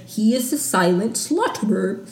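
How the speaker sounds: badly faked British accent; light, half-hearted attempt at a British accent. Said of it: "can't do a good British accent".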